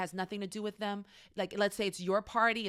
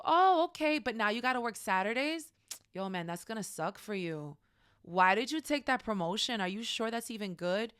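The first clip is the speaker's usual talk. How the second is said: downer friend. Acted. Friend answering promotion news, a downer. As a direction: pour cold water on the news. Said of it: "They're just a downer".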